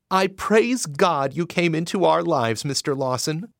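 a grateful mother babbling thanks. Acted. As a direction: pour out grateful words. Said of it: "Missus Selby babbled".

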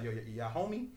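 a hint of a Southern accent, retold. Stranger off the bus asking the friends, in a light Southern accent. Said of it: "had a southern accent".

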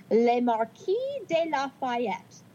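hammed-up French accent on Lafayette; mock French pronunciation of Le Marquis de Lafayette. Podcaster reading a history to her cohost, in a mock French accent. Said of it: "That's my French accent for you".

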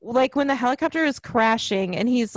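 ordinary delivery

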